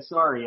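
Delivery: "Sorry." said sore-ee, Canadian vowel; Canadian-style "Sorry." with open o. Retold or imitated. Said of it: "he said it sorry instead of sorry".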